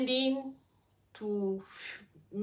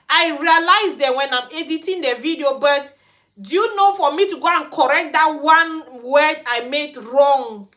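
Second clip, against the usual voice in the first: frustrated outburst; 3 semitones higher, 6 dB louder than usual. Real, not acted. Frustrated rant about fixing errors.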